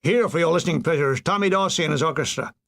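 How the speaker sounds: fast, booming American radio announcer, lightly done; a hint of a big American radio voice; stentorian American announcer. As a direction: rattle it off like an American wireless host. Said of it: "A stentorian American voice said".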